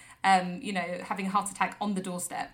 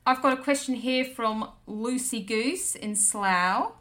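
spoof Australian radio agony aunts, chirpy; Australian accent, cheery advice show; mock Aussie midwives. Hosts playing Aussie midwives answering listener questions, Australian accent.

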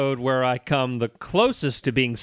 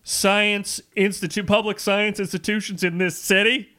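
talking through hiccups; hiccuping; 6 semitones higher than usual. Real, not acted. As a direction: speak with hiccups breaking in. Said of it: "I'm hiccuping while I'm talking".

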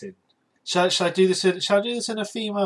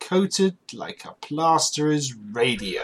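slow, drawn-out posh English; posh accent; slower than usual. Acted. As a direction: read it like a plummy aristocrat. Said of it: "in a posh accent".

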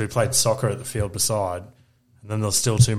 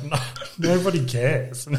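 slow, higher, laughing through the words; laughing put-down; 5 semitones higher than usual. Retold or imitated. Mum telling a bird-fact friend nobody cares, laughing. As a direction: brush her off while cracking up. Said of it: "I just looked at her and I'm like".

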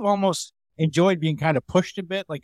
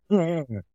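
imitated heckler laugh. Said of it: "like that".

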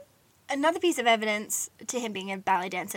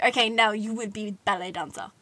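put-on Russian accent; 3 dB louder than usual. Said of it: "I don't know why I did an accent".

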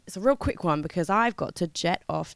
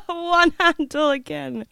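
ordinary talk

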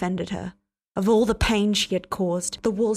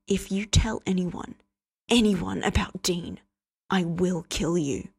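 menacing threat. Acted. Cass's slow death threat.

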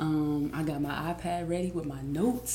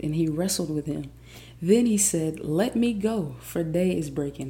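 emphatic scripture reading. Acted. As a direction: read the passage aloud like a dramatic story. Reads the Bible passage aloud.

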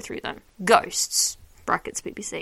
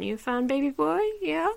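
higher-pitched pet talk; cooing to cat; 6 semitones higher than usual. Real, not acted. Podcaster asks the cat if it's a fan, cooing. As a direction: ask it like you would a pet.

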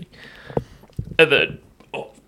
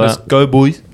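frat bro; 2 semitones higher, 6 dB louder than usual. Real, not acted. Hyped about Deadpool news.

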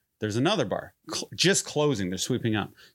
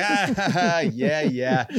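higher mock chuckle along; imitated polite laugh; 3 semitones higher, 3 dB louder, slower than usual. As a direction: play along with a put-on laugh. Retold polite laugh at stranger's jab.

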